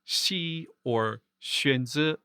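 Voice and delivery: slow, careful palatal hiss opening "xi" and "xuanzi"; Mandarin palatal fricative. Shown as a demonstration. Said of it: "similar to the X in the Hanyu".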